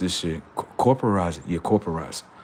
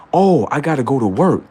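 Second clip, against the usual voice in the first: mock human worker; 3 semitones higher, 5 dB louder than usual. Human voice answering.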